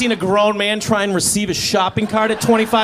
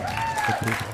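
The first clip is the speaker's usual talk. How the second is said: Good people; 6 dB quieter, slower than usual. Shown as a demonstration.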